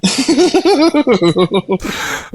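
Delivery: high-pitched giggle fit; high laugh. Real, not acted. Laughs at Wi-Fi take two.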